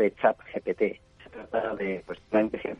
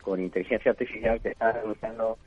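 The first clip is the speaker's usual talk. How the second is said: bad phone line; tinny talking telephone. Real, not acted. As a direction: voice through a broken phone connection. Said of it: "se oye fatal".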